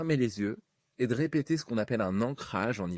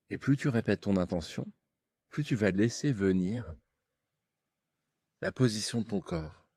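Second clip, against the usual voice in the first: right in your ear. Acted. Leads a hypnosis session.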